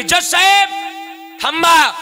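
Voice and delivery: high, loud urgent yell; desperate shout across the court; shouting to stop. Acted. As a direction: cry out to halt the judge. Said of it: "ओरडत ओरडत आली".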